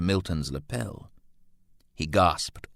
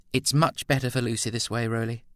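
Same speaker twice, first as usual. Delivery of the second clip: quick, higher, gentle assurance; assuring; 5 semitones higher, faster than usual. A narrator's reading. Edna telling Roland it is better for Lucy, reassuring. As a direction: reassure him lightly and briskly. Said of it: "Edna assured him".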